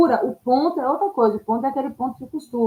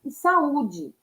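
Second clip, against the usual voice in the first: saída e saúde spelled out slowly, each vowel apart; slow, deliberate teacher's mnemonic; slow memory tip; 3 semitones higher, much slower than usual. Shown as a demonstration. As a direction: drag out saída e saúde so the hiatus shows. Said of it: "a dica pra se lembrar".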